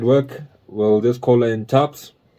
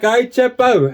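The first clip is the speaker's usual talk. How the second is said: put-on higher, a light white Johannesburg South African accent; 9 semitones higher, slower than usual. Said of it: "they have that accent".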